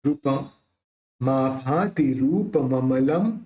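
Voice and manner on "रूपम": रूपम with the dot sounded as a clear म at the end; anusvara as m. Shown as a demonstration. Teacher showing the anusvara, रूपम ending in म. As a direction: close the lips on म in रूपम. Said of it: "इस बिंदी का उच्चारण म करेंगे".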